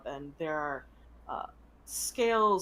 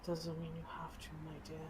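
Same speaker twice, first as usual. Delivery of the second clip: soft dragon voice; 9 dB quieter, faster than usual. Acted. Dragon consoles.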